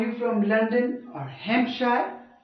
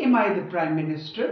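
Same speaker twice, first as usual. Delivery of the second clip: rhetorical question; 4 dB louder, faster than usual. Shown as a demonstration. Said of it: "it is called a rhetorical question".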